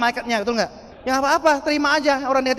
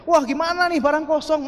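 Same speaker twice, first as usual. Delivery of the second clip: mildly indignant, higher-pitched complaint; complaining; 5 semitones higher than usual. Acted. Group members complain to their leader about empty stock, indignant. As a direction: voice an exasperated customer, pitch raised. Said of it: "mulailah komplain lagi".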